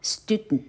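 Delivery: Student said "stoo-dnt"; syllabic n. Shown as a demonstration. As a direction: end Student on a light nasal. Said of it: "学生student".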